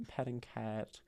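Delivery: whisper. Real, not acted. Reading chat message aside.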